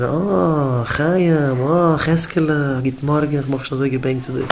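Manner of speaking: drawn-out, affectionate welcome; slow, welcoming teacher's greeting; cheerful warm greeting. Acted. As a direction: act out greeting the children fondly. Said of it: "geben gute Wörter von den Kindern".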